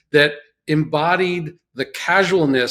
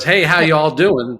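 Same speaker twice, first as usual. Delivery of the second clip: Southern drawl; 2 semitones higher, 4 dB louder than usual. Retold or imitated. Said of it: "somebody goes".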